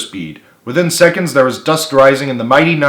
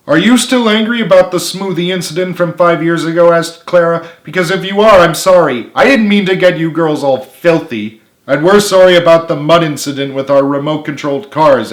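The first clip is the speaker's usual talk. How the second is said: nervous apology; 6 semitones higher, 5 dB louder than usual. A narrator's reading.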